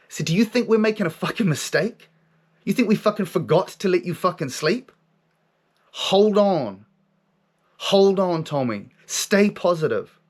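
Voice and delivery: high, insistent exhortation; forceful inner voice. Retold or imitated. Voice challenges his doubt, high and forceful. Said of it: "comes in with this force of energy".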